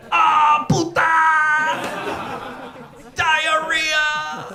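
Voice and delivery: high-pitched exasperated exclamation; outraged outburst. Acted. Montezuma in the afterlife learns his legacy, outraged. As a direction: cry out in comic outrage, drawn high.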